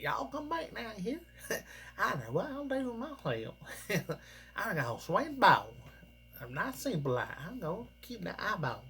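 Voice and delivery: high-pitched, dopey hillbilly stereotype voice; redneck hillbilly accent. Retold or imitated. Fan mimics the show's evil Zubul, hammed-up redneck hillbilly accent. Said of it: "like, redneck hillbilly accent".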